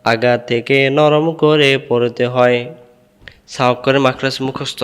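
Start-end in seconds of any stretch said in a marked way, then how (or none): 0.0-2.6 memorization recitation. Shown as a demonstration. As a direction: recite it evenly, syllable by syllable.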